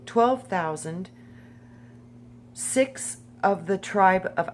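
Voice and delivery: emphatic, list-like read-aloud; measured Bible roll call; scripture reading. Acted. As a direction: read out each tribe deliberately, lifting at phrase ends.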